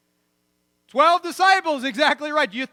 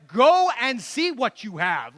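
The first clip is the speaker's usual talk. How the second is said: slow and louder, pressing the point; slow, louder, insistent urging; emphatic Jesus; 6 dB louder, slower than usual. Retold or imitated. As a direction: push them to go look, firmly.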